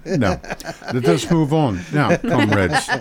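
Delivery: mock Russian accent, laughing through it; joke Russian accent. Host joking to co-hosts, laughing mock Russian accent. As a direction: chuckle as a comrade moving on. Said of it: "that is not my real accent".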